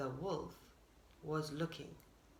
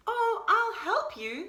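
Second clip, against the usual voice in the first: higher, slower eager offer; eager deer; 10 semitones higher, 4 dB louder, slower than usual. A narrator's reading. Deer offers Beaver help, eager and high. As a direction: offer help brightly, drawn out.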